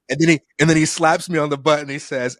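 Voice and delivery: usual speaking voice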